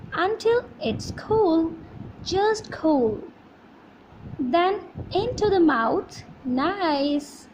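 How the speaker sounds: lively read-aloud of the poem. Shown as a demonstration. Teacher reading a poem to students, lively. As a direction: act the story out as you read.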